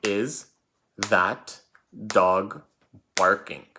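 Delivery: each word set apart by a pause; a teacher reading a sentence slowly for spelling; slow dictation. Shown as a demonstration. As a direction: dictate it one word at a time. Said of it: "was the sentence".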